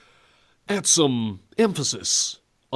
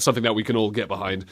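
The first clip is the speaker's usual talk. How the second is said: usual speaking voice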